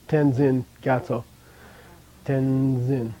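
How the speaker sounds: "Tenzin" with a nasal n fused into the z; prenasal Tenzin. Shown as a demonstration. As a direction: glide the n straight into "zin" of "Tenzin". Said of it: "That's a prenasal".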